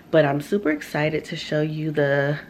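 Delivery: talking through a mouthful of mango; chewing while speaking; mouth full. Real, not acted. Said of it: "sorry, I was eating mango".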